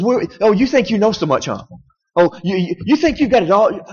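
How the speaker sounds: a touch of mocking scorn from God; mock God taunting. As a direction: needle him like a know-it-all.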